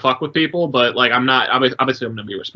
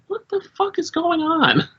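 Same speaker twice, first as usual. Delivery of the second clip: shocked boss; 3 dB quieter than usual. Retold or imitated. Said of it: "was like".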